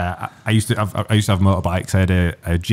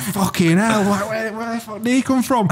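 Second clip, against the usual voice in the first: high, laughing disbelief; shocked swearing; 12 semitones higher than usual. Retold or imitated. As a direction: blurt it out, half laughing, caught off guard. Copper appears in the road.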